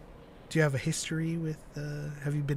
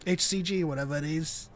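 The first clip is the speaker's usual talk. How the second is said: hammed-up Northern English bloke bragging about the gym; Northern English accent; 3 semitones higher, 4 dB louder than usual. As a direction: Zeb as a Northern English gym lad, louder. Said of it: "was that just Jason Statham".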